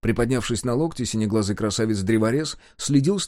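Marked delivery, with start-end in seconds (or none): none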